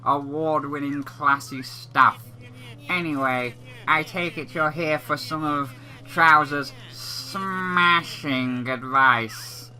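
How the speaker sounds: lightly voiced game salesman, self-promoting patter; a hint of a showy merchant; smooth-talking salesman. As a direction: play a pleased salesman brushing off the remark. Voices Trouser, game's salesman.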